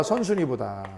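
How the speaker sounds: soft repeat, trailing down; soft murmured echo of the answer; quiet echo. Shown as a demonstration. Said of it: "누구보다?".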